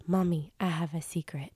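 put-on child whispering a secret to mommy; whispered secret. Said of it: "he said".

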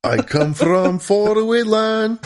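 high, slow mock Russian accent. Host hamming a Russian rocket scientist's accent. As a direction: lay on a thick Russian accent. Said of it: "This is my Russian accent doing Werner von Braun".

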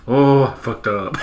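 slow, laughing through it; cracking up retelling the line; laughing repeat. Retold or imitated. Retelling the caught gamer's line, laughing slowly. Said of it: "he's like".

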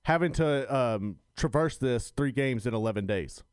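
loud, punchy radio delivery; pushed broadcast voice; loud dense radio voice. Real, not acted. Co-host radio read, loud.

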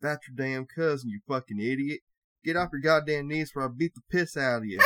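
hint of a redneck holler; mock redneck yelling. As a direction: scold like an angry older redneck. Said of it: "older guy was next to him yelling".

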